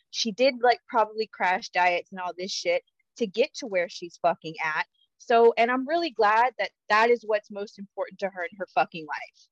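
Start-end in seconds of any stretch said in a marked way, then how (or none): 5.6-9.5 pointedly insincere praise; dry sarcasm with stressed words; sarcastic. Real, not acted. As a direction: pretend to be glad, meaning the opposite. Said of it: "I'm fucking being sarcastic".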